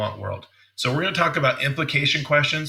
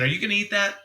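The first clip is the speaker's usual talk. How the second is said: high, eager question to his wife; hinting, hopeful ask; 9 semitones higher, faster than usual. Shown as a demonstration. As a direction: fish for a taste, pitched well up. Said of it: "notice the tone of my voice".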